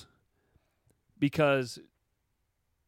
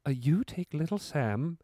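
Sam Tarley voice. Pretend. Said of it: "do it one more time".

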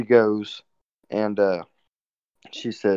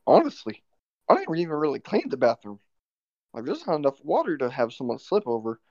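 higher-pitched retold self-defence; mildly acted protesting excuse; defensive protest; 5 semitones higher than usual. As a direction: plead your case, pitch lifted. Defends himself to manager.

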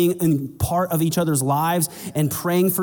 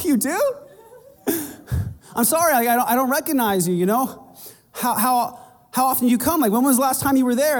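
much higher, laughing disbelief; mock surprise; 8 semitones higher than usual. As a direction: act startled, then sheepish. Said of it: "I'm like".

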